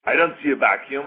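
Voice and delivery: loud imitated heckle; Frank Zane. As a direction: call it out like a critical judge. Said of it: "Frank Zane will call out".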